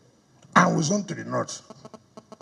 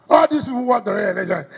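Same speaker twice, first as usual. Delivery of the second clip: rally shout; 3 semitones higher, 4 dB louder than usual. Real, not acted.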